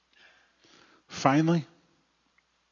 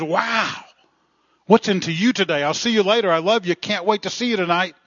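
imitating a thrilled wife, higher and louder; hammed-up delight, pitched up without truly screaming; mock excited scream; 8 semitones higher, 7 dB louder than usual. Delighted wife on the phone to husband, mock excited squeal. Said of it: "the woman screams".

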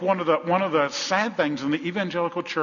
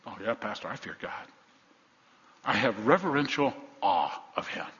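low, subdued pious reply; mock pious churchgoer; 4 semitones lower, 5 dB quieter than usual. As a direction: play the dutiful believer answering the pastor. Voices a complacent churchgoer's reply.

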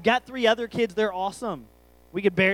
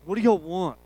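louder, mock-sullen teen retort; imitated surly teen; 5 dB louder than usual. Son pulled aside by his parents, imitated surly retort. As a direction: toss it out like a put-upon teenager. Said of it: "You know, like that".

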